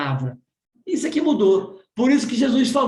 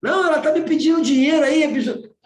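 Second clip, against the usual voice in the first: outraged retort; 6 semitones higher, faster than usual. Retold or imitated. Father contradicting his wife, fast and indignant. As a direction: snap back like an offended father. Father insisting letter is rude.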